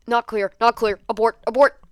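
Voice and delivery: loud frantic alarm, voice pushed up; whisper-shout of a kid caught sneaking; panicked alarm. Acted. Denki panics at kitchen corner.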